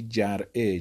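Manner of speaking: جرعه said as jar'e; reading with a. Shown as a demonstration. Teacher listing the three vowel readings, jar'e first. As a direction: give جرعه an open a, jar'e. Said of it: "مثلث الفاء یعنی".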